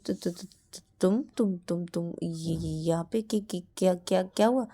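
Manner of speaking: stuttering nervously on every word; stammering. Acted. Shruti caught off guard by Shreya, stammering nervously. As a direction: trip over each word, flustered. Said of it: "ये हकलाना बंद करो".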